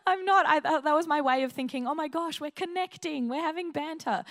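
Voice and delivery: high-pitched, eager self-defence; excited mock protest. Protesting to an intimidated friend, excited. Acts out her own protest.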